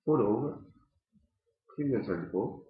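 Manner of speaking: talking around clenched pipe; speaking through clenched teeth; pipe in mouth. Real, not acted. Seen 4: Pipe stem held in mouth throughout while cleaning another pipe.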